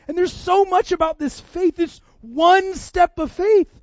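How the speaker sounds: loud, high, impassioned preaching; full-force preaching. Real, not acted. Preacher urging congregation on faith's legacy, at full force. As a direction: drive each phrase home to the congregation.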